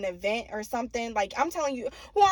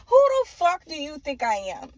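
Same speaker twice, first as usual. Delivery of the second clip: higher, louder acted outrage; lightly hammed-up affronted challenge; mock indignation; 5 semitones higher, 6 dB louder than usual. Acts out rejecting the son.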